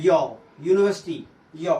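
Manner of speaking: "यौ" isolated low and slow, then "यूनिवर्सिटी" beginning with that y glide; opening y sound. Shown as a demonstration. Teacher showing how university starts, sounded-out y glide. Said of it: "यूनिवर्सिटी में इसका उच्चारण क्या है".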